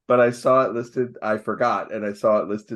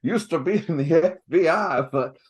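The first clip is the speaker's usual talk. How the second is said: mock Southern accent; 4 semitones higher than usual. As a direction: put on a cartoon Southern accent. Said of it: "it's not a Foghorn Leghorn accent".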